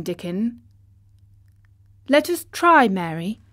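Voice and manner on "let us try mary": bright eager call, higher and louder. Acted. Colin eagerly asking Dickon to sing again. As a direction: jump in keenly to sing.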